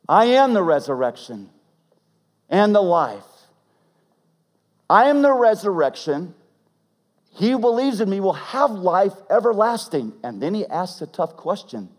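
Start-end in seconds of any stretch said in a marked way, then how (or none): 0.1-10.1 louder, ringing declaration; declared boldly with rising voice; proclaiming. Acted. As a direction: proclaim it to the crowd. Jesus proclaims the resurrection.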